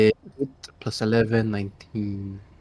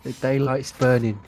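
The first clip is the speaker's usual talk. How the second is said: British accent. Shown as a demonstration. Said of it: "You're British".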